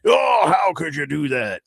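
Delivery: hammed-up cry of horrified disbelief; put-on wail of a scandalised fan; mock outrage. Imagined fan scolding the star over a hat, mock outrage. Mimics outraged fans who don't exist.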